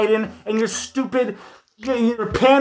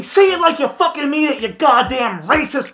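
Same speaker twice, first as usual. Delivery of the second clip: mock egging on; 4 semitones higher than usual. Mockingly eggs on the played clip.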